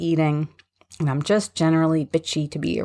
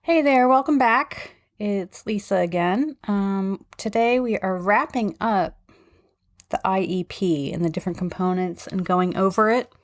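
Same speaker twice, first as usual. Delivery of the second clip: talking through new braces, slight lisp; 3 semitones higher than usual. Real, not acted. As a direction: lips won't fully close, lisping. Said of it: "if I sound like I'm talking funny, I am".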